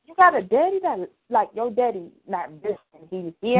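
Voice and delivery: mock shock at seeing a dad; mild mock surprise; shocked dude. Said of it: "he like".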